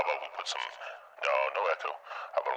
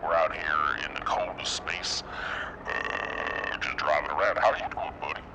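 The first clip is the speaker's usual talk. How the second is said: trucker voice. Pretend. Trucker welcomes a chatter, trucker voice. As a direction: greet a buddy like a space trucker. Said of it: "For the trucker voice".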